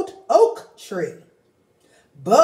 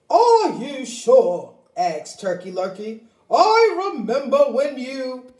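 doubtful turkey; 5 semitones higher, 3 dB louder than usual. Acted.

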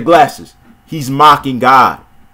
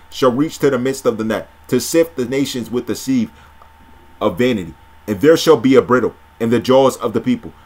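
measured, solemn Bible reading; scripture reading. Acted. Preacher reading scripture to viewers, measured and solemn. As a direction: read the prophecy steadily, like from a pulpit.

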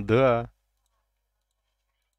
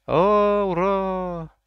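high excited cheer; 10 semitones higher, 8 dB louder, much slower than usual. Real, not acted. Gets a reward.

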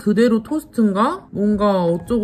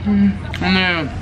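talking with mouth full; speaking between bites; chewing food. Real, not acted. Seen 1: Eats cucumber piece, then bites sandwich; chewing throughout labelled span.

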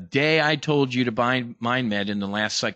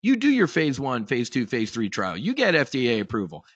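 lightly voiced gloating drug giant; smug Big Pharma; 4 semitones higher than usual. Narrator mocking Big Pharma letting startups do the work, smug. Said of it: "Big Pharma is just sitting there chuckling".

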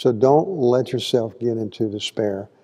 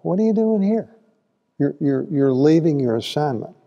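God challenging; 4 semitones higher than usual. Retold or imitated. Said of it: "And God's like".

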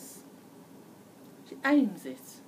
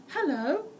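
higher, louder, slowing on the last words; smug little girl; 4 semitones higher, 5 dB louder than usual. A narrator's reading. Red Riding Hood shows off her wolfskin coat. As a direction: show off the coat proudly. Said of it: "She said".

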